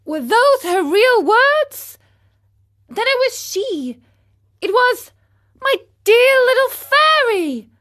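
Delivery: high, loud anguished cry; crying out, sobbing. Acted. Pinocchio realizes the fairy has gone, sobbing. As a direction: wail it out in grief. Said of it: "cried out Pinocchio, sobbing bitterly".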